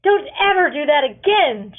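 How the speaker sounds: loud, high telling-off; scolding. A narrator's reading. A relieved mother scolds her son, loud and angry. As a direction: scold him sharply. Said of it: "she scolds".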